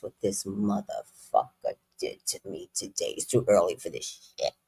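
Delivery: hushed bitter office gossip to a friend; ugly hood rat gossip. Retold or imitated. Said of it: "It can get really, really ugly".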